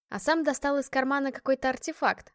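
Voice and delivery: ordinary delivery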